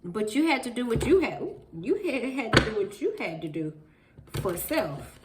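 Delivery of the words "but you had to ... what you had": laughing through the words; chuckling while talking. Real, not acted. Laugh heard on the line.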